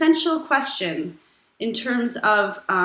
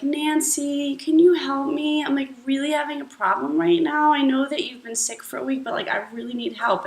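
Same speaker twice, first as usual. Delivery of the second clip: whiny friend; 3 semitones higher, faster than usual. Acted. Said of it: "bring in their most pulling voice".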